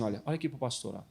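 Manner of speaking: soft, gentle calming voice; calm soothing demo. Shown as a demonstration. Pastor shows the congregation the calm way, softly. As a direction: coax someone down softly. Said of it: "você tem que fazer assim".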